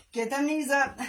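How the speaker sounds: ordinary talk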